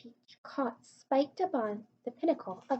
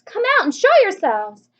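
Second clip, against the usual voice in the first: loud, high hail upward; police chief shout; 8 semitones higher, 13 dB louder than usual. A narrator's reading. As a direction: bellow up at the rooftop. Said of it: "shouted the chief of police".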